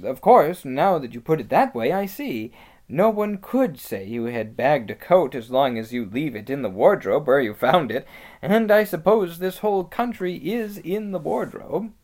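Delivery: animated character agreement; agreeable Peter. Acted. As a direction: reason it out with growing conviction.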